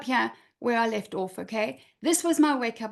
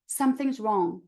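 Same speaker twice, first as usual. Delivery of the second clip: very calmly; 3 semitones lower than usual. Retold or imitated. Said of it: "Very calmly".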